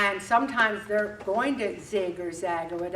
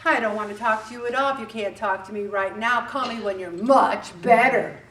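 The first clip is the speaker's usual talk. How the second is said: cold reading; 3 dB louder than usual. Retold or imitated. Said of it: "the other person can read it like".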